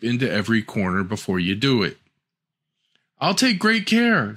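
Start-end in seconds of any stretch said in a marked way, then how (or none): 3.2-4.4 put-on little girl. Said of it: "said Little Red Cap to her mother".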